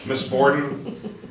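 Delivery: "Miss Borden?" said very slowly, stretched; slow, stretched "Miss Borden?" to end his rant; drawn-out jab. Acted. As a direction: drag out the name as a pointed challenge. Howard's pointed closing jab.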